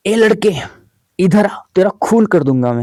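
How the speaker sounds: a half-shouted call after a fleeing student; mock teacher yelling across the college; hammed-up angry teacher call. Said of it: "उन्होंने मुझे आवाज लगा के बोला".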